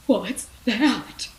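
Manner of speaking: high, loud startled cry; panicky. Acted. Rex spotting the grass in a panic, high and loud. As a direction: blurt it out in alarm. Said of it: "he said in a panic".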